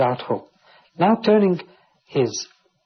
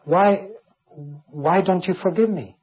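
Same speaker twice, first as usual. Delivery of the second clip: pleading; 4 semitones higher than usual. Acted. Voicing Job pleading with God.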